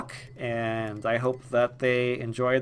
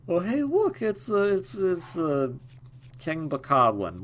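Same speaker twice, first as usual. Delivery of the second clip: much higher, gleeful squeal of discovery; excited spotting; 7 semitones higher than usual. Real, not acted. Gamer spots the King Bokoblin and squeals in delight. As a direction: yelp it out as if delighted by a sighting.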